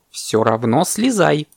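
slow, insistent order; demanding parrot. Acted. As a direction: spell out the demand firmly. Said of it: "потребовал попугай".

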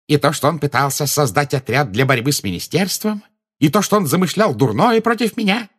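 high, building excited question; thrilled. A narrator's reading. Minister checks the confession was noted, thrilled.

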